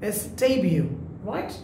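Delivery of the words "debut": "debut" as DAY-byoo, silent t; correct pronunciation. Shown as a demonstration. Teacher correcting learners' debut, correct pronunciation. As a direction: say "debut" with an ay vowel and no t. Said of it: "অনেকে বলে ডেবিউ".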